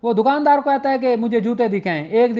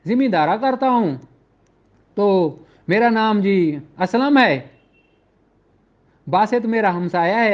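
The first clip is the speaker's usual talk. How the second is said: complainant's statement; 2 semitones lower than usual. Retold or imitated. Complainant Aslam tells his case.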